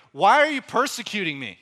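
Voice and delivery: thunderous, high shouted demand; loud, commanding challenge; Jesus. Acted. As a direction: boom it out like a voice from heaven. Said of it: "with a voice like thunder".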